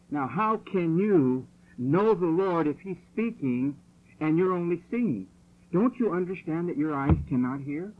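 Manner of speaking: loud preaching. Real, not acted. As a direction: drive it home to the hall. Preacher pressing the congregation.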